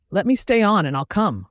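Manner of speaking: high, loud protest; struggling yell. A narrator's reading. Girl clinging to guard's back, yelling. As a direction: yell it while fighting to hang on. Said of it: "I yelled in struggle".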